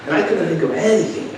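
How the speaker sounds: high, loud panicked outburst; inner scream acted out. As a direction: act out a silent scream, voiced high and loud. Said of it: "I was screaming inside".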